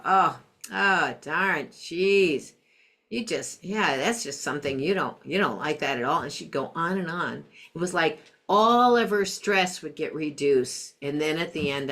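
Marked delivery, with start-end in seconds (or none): 0.0-6.2 empathetic mom. Retold or imitated. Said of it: "And I'd go".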